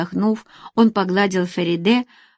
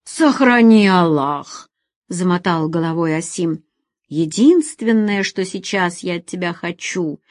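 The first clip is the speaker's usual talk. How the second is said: put-on firm older man. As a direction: order her away. Asim firmly sending her away.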